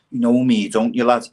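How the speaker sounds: lightly acted plazzy gangster pleading entry; pretend gangster. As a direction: push your way in by familiarity. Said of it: "plazzy gangsters".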